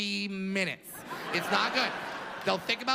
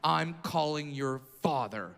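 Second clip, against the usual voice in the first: low, slow scolding principal; slow, disapproving school principal; stern principal; 5 semitones lower, 3 dB quieter, slower than usual. Retold or imitated.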